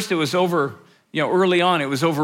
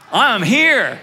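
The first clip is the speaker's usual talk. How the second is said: I'm here said louder and higher, punched; exclamation point; 4 semitones higher, 6 dB louder than usual. Shown as a demonstration. Pastor shows the church "I'm here" as an exclamation, loud and bright. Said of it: "with an exclamation point after it".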